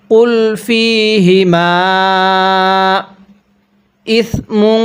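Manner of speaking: "ইসমুন" slowly, ending in a humming nasal n; nasalized recitation. Shown as a demonstration. Teacher shows ghunnah on the tanween. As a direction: hum the tanween of "ইসমুন" through the nose. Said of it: "এই তানবিনটা গুনাহ করব".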